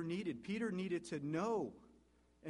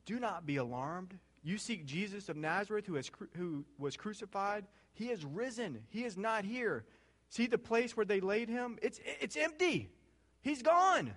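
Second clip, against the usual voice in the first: starts calm, then climbs higher and louder to a ringing shout; angel's building proclamation; 6 semitones higher, 4 dB louder than usual. Acted. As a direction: build the angel's news to a triumphant cry. Angel announces the empty tomb.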